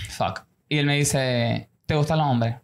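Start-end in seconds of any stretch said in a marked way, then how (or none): 0.1-0.4 low, soft swear to himself; dismayed undertone. 1.9-2.6 lightly voiced stern dad, lower; serious father.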